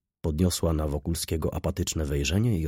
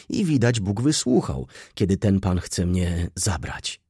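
put-on louder, animated girl's chatter; indignant young girl; 3 semitones higher, 4 dB louder than usual. Girl telling Wokulski about the old woman, lightly voiced indignation. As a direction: pour out the grievance as the girl.

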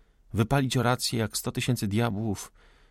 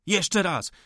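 emphatic insistence; 8 semitones higher than usual. Acted. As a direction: fling the words back at him.

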